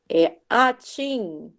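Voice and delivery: atim drawn out slowly like a sneeze; slow sneeze sound. Shown as a demonstration. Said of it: "uma possível resposta pra pessoa espirrando".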